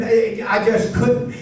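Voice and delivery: a light laugh breaks into the words; laughing through it. Retold or imitated. Pastor retelling a debtor's confession, half-laughing. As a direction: chuckle out the admission.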